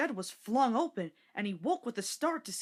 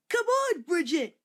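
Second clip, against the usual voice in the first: put-on much higher, louder child's call; 9 semitones higher, 8 dB louder, slower than usual. A narrator's reading. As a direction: shout to his sister across the road. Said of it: "he called to his sister".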